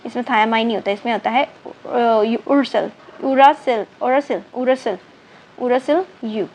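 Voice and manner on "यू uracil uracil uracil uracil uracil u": "uracil" said clearly as yoo-ra-sil, over and over; pronouncing uracil. Shown as a demonstration. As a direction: drill "uracil" slowly, syllable by syllable. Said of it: "uracil बोलेंगे इसको". ("uracil" को यू-रा-सिल बोलकर दोहराना)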